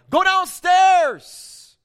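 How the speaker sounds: sudden high urgent shout; blurted shout. Retold or imitated. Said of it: "she blurted".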